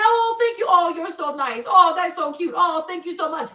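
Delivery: bright, chirpy string of "oh"s; sweet thanks. Retold or imitated. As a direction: flatter and move along. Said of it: "I always have".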